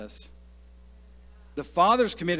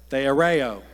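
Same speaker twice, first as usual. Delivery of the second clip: theoreo said louder with a cocky swagger; with some swag; 2 semitones lower, 5 dB louder than usual. Shown as a demonstration. Preacher asking the congregation to say theoreo with swag, cocky. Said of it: "Say it with some swag".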